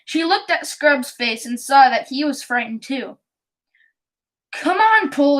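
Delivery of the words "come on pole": breathless. Acted. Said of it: "in a breathless voice".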